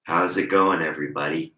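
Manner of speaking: upbeat vlog hello, straining past the hoarseness; trying for his normal cheery intro; attempted bright greeting through a sore throat. Shown as a demonstration. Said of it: "It's more like".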